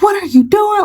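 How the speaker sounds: high-pitched mock scolding; retold telling-off in a high voice; grandma going off. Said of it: "she just started going off".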